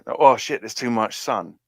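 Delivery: put-on London accent squinting into sun; squinting Australian. Explaining Australian to friends as a squinting London accent. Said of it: "It's squinting. It's London squinting".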